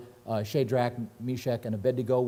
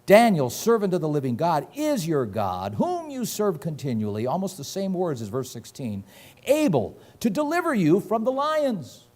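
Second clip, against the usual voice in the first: questioning; 4 semitones higher than usual. Retold or imitated.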